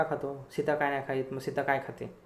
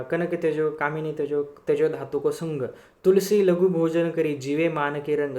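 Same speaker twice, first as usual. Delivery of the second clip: slow poem recitation; slower than usual. Acted. Teacher reciting a Tulsidas couplet to students, slow and measured. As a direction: recite the couplet slowly, dwelling on each phrase.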